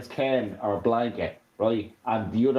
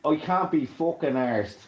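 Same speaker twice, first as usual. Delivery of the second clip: Dublin "arsed" said with a long open ar and a trilled-off r; Dublin accent demo; 3 semitones higher than usual. Shown as a demonstration. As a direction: show how Dublin says "arsed". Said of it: "That's the way we say it in Dublin".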